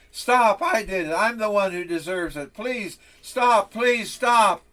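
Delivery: high, loud desperate plea; a child crying out in pain; begging. Acted. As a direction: beg him to stop, near tears. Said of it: "the little rebel begged".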